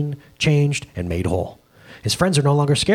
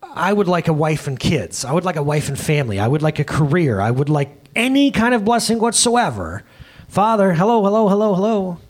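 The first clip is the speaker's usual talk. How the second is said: mock demanding plea; 4 semitones higher than usual. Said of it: "I was screaming to God".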